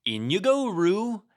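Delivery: loud and high, calling out. A narrator's reading. Rabbit loudly hurrying Roo into his arms, loud call. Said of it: "Rabbit said in a loud voice".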